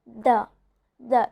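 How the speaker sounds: "the" with a buzzing TH; isolated model "the", voice on in the TH; voiced TH. Shown as a demonstration. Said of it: "It's the voiced one".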